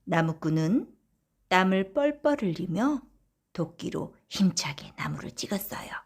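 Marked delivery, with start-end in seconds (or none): none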